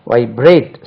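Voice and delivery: வைப்ரேட் with the weight on ப்ரேட்; வைப்ரேட் said as vai-BRATE; stress on second syllable. Shown as a demonstration. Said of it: "second syllable".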